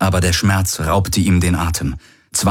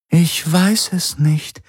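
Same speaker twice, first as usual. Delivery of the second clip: hoch, langsam und betrübt; 10 semitones higher, slower than usual. A narrator's reading. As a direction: ehrlich traurig antworten. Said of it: "Sie klang ehrlich betrübt". (betrübte Antwort)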